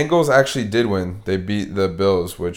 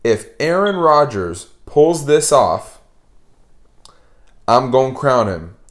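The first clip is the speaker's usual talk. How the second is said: quoting friend; 3 semitones higher, slower than usual. Retold or imitated. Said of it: "Nell said, and I quote".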